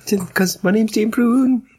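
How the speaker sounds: high, slow fake American; drawn-out high mock American voice; mock American accent. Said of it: "so it's like that, but it's proper American".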